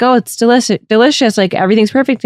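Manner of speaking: lightly voiced, pleasantly approving husband; agreeable robot husband. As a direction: imitate an uncritical, easily pleased partner. Voicing the ever-agreeable robot husband.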